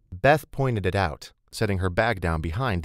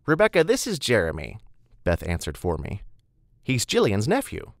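higher, bright introduction; cheerful older woman; 4 semitones higher than usual. Acted. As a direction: introduce him helpfully. Beth introduces him.

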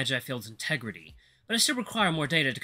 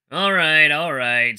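loud call to order; 9 dB louder, much slower than usual. Real, not acted. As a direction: call the room to attention. Calling the group to order.

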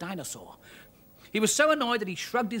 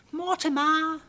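panting call; 11 semitones higher, 5 dB louder, slower than usual. Acted. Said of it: "panted Arabelle".

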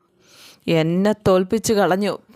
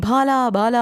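higher-pitched mock call; imitated calling out; 4 semitones higher, slower than usual. Visiting father calls Bala from the car, imitated calling out. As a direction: call the name as if from outside. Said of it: "എന്നൊരു വിളി".

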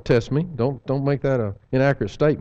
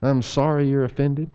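snide non-apology. Shown as a demonstration. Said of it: "don't say it with an attitude".

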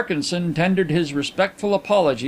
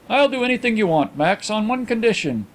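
higher-pitched genial Englishman; reply to a friend in a raised voice; lightly voiced gentleman; 6 semitones higher than usual. Narrator voices Carlyle bargaining.

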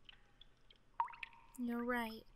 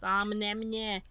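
mock ominous; 6 dB louder, much slower than usual. Shown as a demonstration. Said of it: "this music getting ominous".

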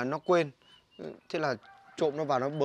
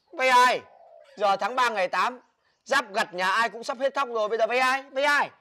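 gắt gỏng; 5 semitones higher than usual. Acted. Anh gắt hỏi lại em.

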